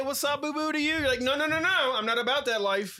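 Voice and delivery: camp gay man. Acted. Teasing a friend about pet names, camp gay-man voice. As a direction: lift it into a camp put-on voice. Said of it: "Why do you say it like a gay guy?".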